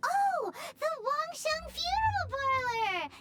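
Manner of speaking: gasp, then blurt the name out; surprised exclamation. Acted. Paimon suddenly recognizing the parlor, surprised.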